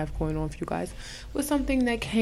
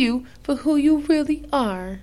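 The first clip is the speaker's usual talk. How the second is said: infomercial voice; 8 semitones higher, 3 dB louder than usual. Acted. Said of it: "You was doing the infomercial voice".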